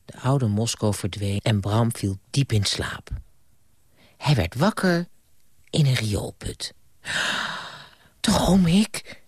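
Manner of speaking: storyteller voice, lively with character voices; bedtime story reading. Acted. Grandpa reading to a child at bedtime, gentle storytelling. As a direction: read it like grandpa at the bedside.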